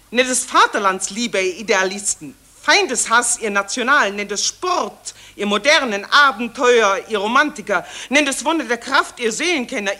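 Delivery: loud, rousing declamation; declaiming grandly. Acted. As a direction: proclaim it to everyone, grandly. Pathetische Ansprache an alle. (laut und pathetisch deklamiert)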